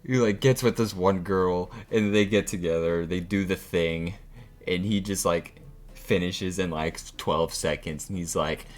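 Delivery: high, loud, laughing rant; excited. Real, not acted. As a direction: gush it out loud and fast. Excited retelling.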